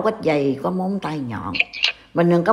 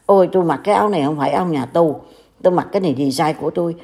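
mocking imitation; faster than usual. Vlogger mocks the monk's excuses about his robe, in a fast, lightly mocking voice. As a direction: lightly mimic a man brushing off criticism, speeding up. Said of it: "Mà nói".

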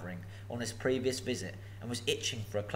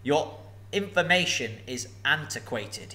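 snapping dragon; 2 semitones higher than usual. Acted. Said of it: "he snapped".

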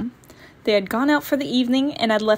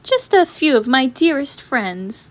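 sweetly grand; 3 semitones higher, 4 dB louder than usual. Acted. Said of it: "Lizzie continued".

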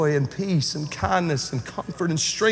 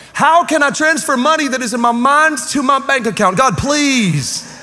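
mock desperate prayer; 5 semitones higher than usual. Reading a meme as prayer.

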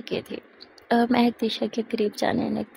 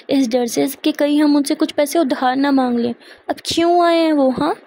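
loud rising rant; louder, building angry rant about relatives; 3 semitones higher, 6 dB louder than usual. Acted. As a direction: vent all the old bitterness. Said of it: "अपना गुस्सा निकाले ही जा रही थी".

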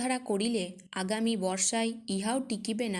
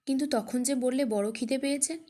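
put-on worried child, higher and louder; anxious; 5 semitones higher, 4 dB louder than usual. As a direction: ask anxiously, pressing him. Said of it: "উদ্বিগ্ন মুখে কহিল". (উদ্বিগ্ন মেয়ের ব্যাকুল প্রশ্ন)

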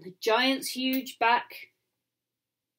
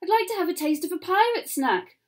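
put-on little boy voice; 7 semitones higher, faster than usual. A narrator's reading. Little boy's voice.

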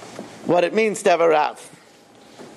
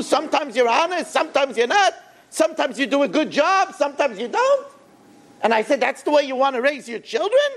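retold scolding; 6 semitones higher than usual. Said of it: "So I lashed into him".

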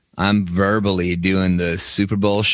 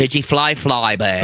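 mock announcement; 5 semitones higher than usual. Mocking naming of the dish.

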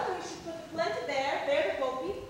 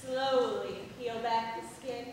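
suggestive; 3 semitones lower, 4 dB louder, much slower than usual. Acted. Seductive peach description.

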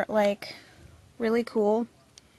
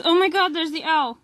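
higher and louder, gushing over the owl sticker; squealing with delight; 5 semitones higher, 4 dB louder than usual. Real, not acted. Vlogger spotting the owl sticker, squealing excitedly. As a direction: squeal it like you just spotted your favorite. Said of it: "gonna stop freaking out now".

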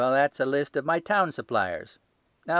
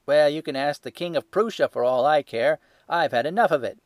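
loud, higher, furious; angry shouting; 5 semitones higher, 10 dB louder than usual. A narrator's reading. Salesman chasing off the little man, shouting. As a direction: shove him out the door with your voice. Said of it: "he shouted".

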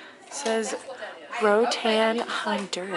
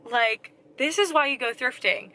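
louder, building excitement, stretched "forty dollars"; excited haul reveal; 2 semitones higher, 5 dB louder, slower than usual. Real, not acted. Telling viewers her thrift haul cost, excited and louder. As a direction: hype up the bargain total like a big reveal.

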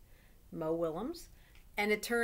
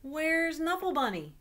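mommy asking; 7 semitones higher, 5 dB louder than usual. Acted. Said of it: "she asked".

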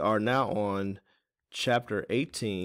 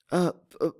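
acted little throat-clear; 9 semitones higher, 4 dB louder than usual. A narrator's reading. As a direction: clear the throat before speaking. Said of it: "Teeny cleared her throat".

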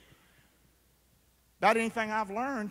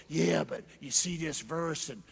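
kooky believer; 5 semitones lower, 4 dB quieter than usual. Retold or imitated. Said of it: "all this kooky stuff".

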